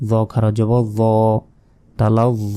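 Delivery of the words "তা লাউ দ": দ held long on its vowel; তা লাউ দ ending on a sustained open vowel; one-alif stretch. Shown as a demonstration. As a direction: draw out the final দ in তা লাউ দ. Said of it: "এক আলিফ".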